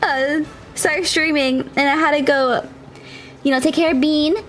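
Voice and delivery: breathless after running stairs; winded, talking between breaths. Real, not acted. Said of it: "I'm a little out of breath right now".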